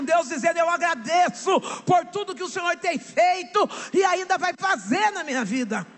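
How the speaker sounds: rising preacher's cry, sung in places; pregação inflamada. Acted. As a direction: build to a shouted climax of faith. Preaching at full force. (pregação em alto brado, quase cantada)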